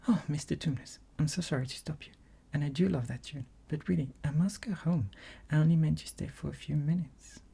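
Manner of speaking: a hint of a polite young girl; young Lucy. Lucy's voice.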